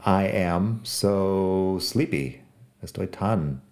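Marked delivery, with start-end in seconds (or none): 0.1-2.4 drawn-out, slow and sleepy; with feeling. Shown as a demonstration. Teacher showing learners an emotional so, slow and sleepy. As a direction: let the sleepiness stretch the words. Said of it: "con una emoción".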